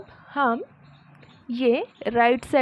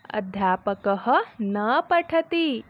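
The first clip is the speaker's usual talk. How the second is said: slow model reading; slower than usual. Shown as a demonstration. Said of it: "teacher reads Sanskrit slowly".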